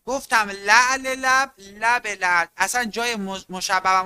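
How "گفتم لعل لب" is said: لعل لب said slowly and louder, kasre clear; teacher repeats لعل لب to drill the ezafe; emphatic repeat. Shown as a demonstration. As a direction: hammer the linked لعل لب. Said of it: "امشب بهتون گفتم".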